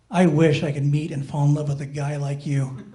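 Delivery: lightly voiced, soft romantic confession; soft confiding. Girl confiding in her friend on the bed, soft and confiding.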